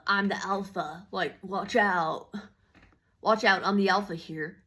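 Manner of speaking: puffed-up, imitating a self-declared alpha; mock alpha ego. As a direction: swagger mockingly, stretching the warning. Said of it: "trying to be all ego".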